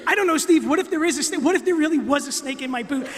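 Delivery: huffy retort to Steve; mock angry. Bill snapping back at Steve about the snake, mock anger. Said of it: "'cause he did it angry".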